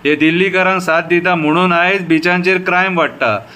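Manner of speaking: repeated refrains with falling line ends; poem recitation. Shown as a demonstration. Citizen reciting a poem about the police, measured recitation. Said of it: "आतां कविता बरयल्या ती आयका".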